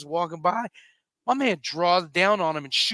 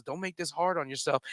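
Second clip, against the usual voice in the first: low, soft imitated menace; quiet threat; 5 semitones lower, 8 dB quieter than usual. Armed gamer confronting frightened newcomer, low quiet threat. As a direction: threaten softly, pitched down.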